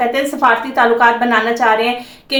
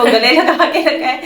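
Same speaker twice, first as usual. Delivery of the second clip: amused laughing. Real, not acted. Reactor amused by media counting the hug's seconds, laughing. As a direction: laugh breaking into the words. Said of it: "मुझे इतनी हंसी आ रही थी".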